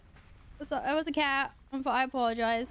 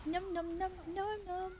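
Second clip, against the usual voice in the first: high, soft chomping noms; squeaky little chomps; 7 semitones higher, 7 dB quieter than usual. Pretend.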